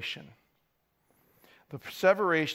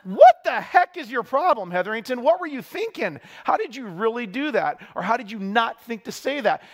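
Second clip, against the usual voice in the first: higher, louder mock exasperation at himself; bewildered self-scolding; 4 semitones higher, 4 dB louder than usual. Preacher replays scolding himself by name, higher, bewildered. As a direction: berate yourself in disbelief. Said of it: "this bewilderment".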